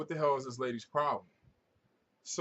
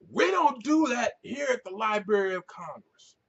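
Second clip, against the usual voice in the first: higher, louder prim librarian voice; mock snooty librarian; 9 semitones higher, 5 dB louder than usual. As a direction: play the librarian shutting him down. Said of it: "librarian quoted".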